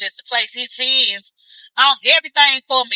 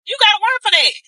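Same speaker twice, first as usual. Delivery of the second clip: preaching; 10 semitones higher, faster than usual. Acted. Preaching to viewers, settling after the shout. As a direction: still preachy but coming down a bit. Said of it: "before I start preaching".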